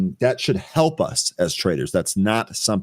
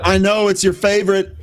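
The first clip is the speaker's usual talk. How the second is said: laughing; 10 semitones higher, 5 dB louder than usual. Real, not acted. Teasing with laughter.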